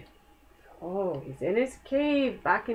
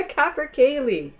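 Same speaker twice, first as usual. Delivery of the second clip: laughing through the word capercaillie, higher and louder; 5 semitones higher, 3 dB louder than usual. Real, not acted. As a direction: giggle out capercaillie. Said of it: "good words".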